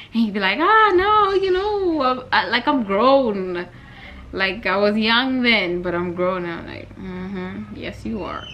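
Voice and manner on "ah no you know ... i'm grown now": embarrassed friend. Retold or imitated. Jason voiced, embarrassed.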